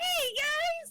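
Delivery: tiny, very high-pitched, squeaky pipsqueak voice. Imitating a player's shrunken character: imitating a high-pitched pipsqueak. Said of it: "very high pitched".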